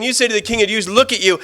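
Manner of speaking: high-pitched scornful taunt; jeering taunt. Acted. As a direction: heckle the condemned man from the crowd. Retells crowd jeering at Jesus.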